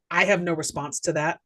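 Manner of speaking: understated deadpan imitation, slightly low. Woman shuts Joe down again, mildly deadpan. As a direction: repeat her catchphrase with mild blankness. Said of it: "looks him dead in the face and goes".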